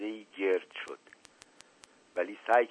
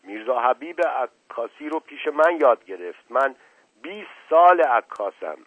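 boastful; 4 semitones higher, 6 dB louder than usual. Acted. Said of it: "عکاس بادی در دماغ انداخت".

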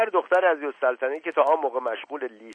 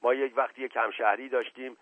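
lightly voiced evasive servant; a hint of a humble servant, hedging as he reports; reluctant servant. Servant begins his tale.

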